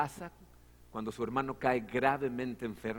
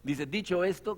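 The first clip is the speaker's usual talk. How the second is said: ordinary delivery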